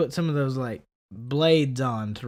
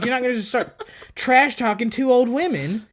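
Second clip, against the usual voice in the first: retold angry yell; 11 semitones higher, 6 dB louder than usual. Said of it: "I was like".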